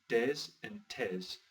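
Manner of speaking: "des and tes" with plain hard d and t; "des and tes" as "dehs and tehs". Shown as a demonstration. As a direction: say "des and tes" slowly, no j or ch sound. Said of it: "the D's and the T's are actually".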